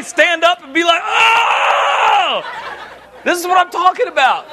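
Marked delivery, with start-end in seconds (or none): 0.0-2.4 mock jumpy shout. Boy asked to stand, mock startled shout. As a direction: jump up and yelp like you're startled. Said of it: "I didn't say".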